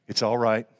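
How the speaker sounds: low, gentle reassurance; gentle carpenter voice. Acted. Jesus to disciples in the storm, gentle carpenter voice. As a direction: comfort them gently in a low voice. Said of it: "Beautiful carpenter voice".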